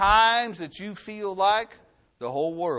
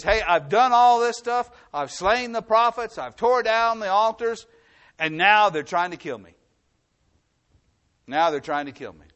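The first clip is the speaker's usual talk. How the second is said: mildly aggrieved prophet, higher then dropping back; complaining Elijah; 5 semitones higher, 3 dB louder than usual. Retold or imitated. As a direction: list your deeds like a hard-done-by man, then sag. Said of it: "He says".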